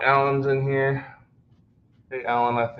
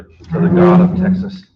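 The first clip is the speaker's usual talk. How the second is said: excited punchline; 9 semitones higher, 12 dB louder, slower than usual. Real, not acted. Jokey spooky sacrifice line.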